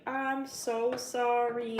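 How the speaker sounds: mock apology. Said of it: "and it's like".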